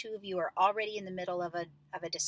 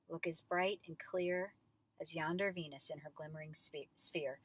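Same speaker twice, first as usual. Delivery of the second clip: touch of sadness. Shown as a demonstration. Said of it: "kind of a sadness".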